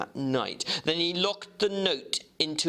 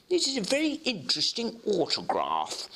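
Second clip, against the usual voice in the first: higher, knowing clerk; clerk Guest; 8 semitones higher than usual. Acted. Clerk Guest telling the lawyer what he noticed, higher and knowing. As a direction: lift the voice, savouring the discovery.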